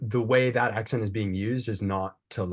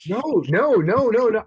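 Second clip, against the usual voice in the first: emphatic protest; 11 semitones higher, 6 dB louder than usual. Real, not acted. Protests he does not want a restart.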